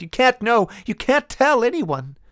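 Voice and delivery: very high, loud, slow plea; crying out. A narrator's reading. Woman begging the men, high crying plea. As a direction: beg them to keep it secret. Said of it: "she cried".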